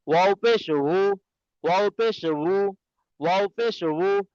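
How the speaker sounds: ওয়াও পেশ ভু with a light v onset; slow drill of ভু with a v; soft v u. Shown as a demonstration. Teacher drills the v sound for the class. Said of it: "ভি দিয়ে চেষ্টা করবেন".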